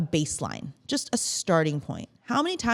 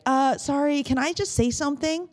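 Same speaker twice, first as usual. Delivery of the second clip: higher-pitched, tentative request; timid interruption; 8 semitones higher than usual. Acted. Meeting participant trying to jump in, timidly apologetic.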